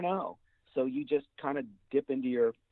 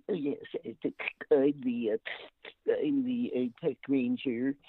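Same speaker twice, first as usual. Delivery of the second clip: nasal park ranger. Retold or imitated. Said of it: "I give him a little bit of a nose thing".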